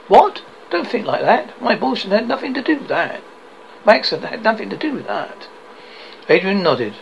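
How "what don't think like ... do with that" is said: alarmed protest. Acted. Husband alarmed at wife's guilt.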